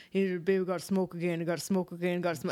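lazy, drawn-out stoner mumble; slow-mo rapper impression. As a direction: mimic the slowed-down rap line. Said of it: "I'm not a big fan of, um, like, the slow-mo voice".

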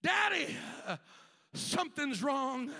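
put-on boy in pain. Boy in the field crying to his father, mock pained. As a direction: call to Daddy, hurting. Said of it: "He began to say".

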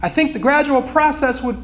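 steady storytelling read of a passage; earnest read-aloud of a book excerpt. Acted.

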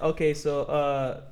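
low, quiet, casual white-guy voice; lightly voiced low-key white guy; white guy talking. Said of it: "a white person or anyone not Hispanic will be".

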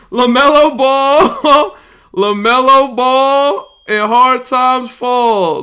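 laughing through drawn-out names. Real, not acted. Streamer laughing at who fell in the draft, drawn out. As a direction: stretch the names out while cracking up.

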